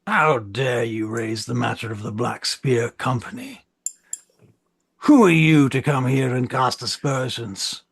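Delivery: mildly outraged councillor; indignant rebuke. Acted. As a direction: open each challenge with force, then rein it in. Acted councillor rebukes the envoy.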